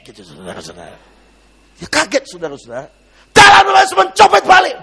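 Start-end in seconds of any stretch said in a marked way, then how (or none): 3.3-4.7 loud, high-pitched yell; imitated shouted command. Pastor ordering the pickpocket back, imitated shout. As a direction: call the fleeing man back at full voice. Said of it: "dia langsung teriak".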